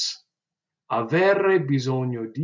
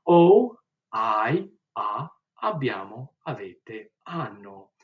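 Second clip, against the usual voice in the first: conjugation drill; 6 dB louder, slower than usual. Shown as a demonstration. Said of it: "I'll do it again without the subject pronouns".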